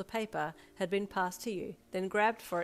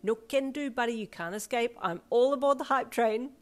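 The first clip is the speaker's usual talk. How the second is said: loud, high, gleeful refusal; boisterous excitement; hyped up; 5 semitones higher, 9 dB louder than usual. A narrator's reading. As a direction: crow it, building to a shout. Hyped refusal while yanking him along.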